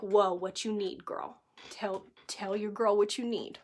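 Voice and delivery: Mama Hen comfort. Retold or imitated. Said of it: "she needs Mama Hen".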